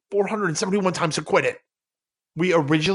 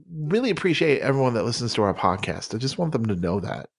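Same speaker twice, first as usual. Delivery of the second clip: sincere thanks; 4 semitones lower than usual. Real, not acted. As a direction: drop the act and mean it. Sincere thanks after the bit.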